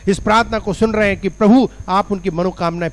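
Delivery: earnest, pressing intercession; insistent public prayer; fervent prayer. Real, not acted. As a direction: plead aloud on behalf of the people.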